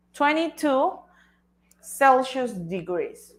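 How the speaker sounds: twenty-two Celsius degrees drawn out slowly; teacher modelling a temperature slowly; slow model. Shown as a demonstration. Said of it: "diríamos algo como".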